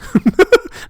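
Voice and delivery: sudden high-pitched laugh; high burst of laughter. Real, not acted. Laughs at calling himself poor.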